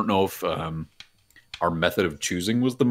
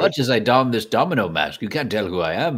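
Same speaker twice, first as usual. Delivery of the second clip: disguised deep voice; 3 semitones higher than usual. Acted. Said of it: "This distinct voice".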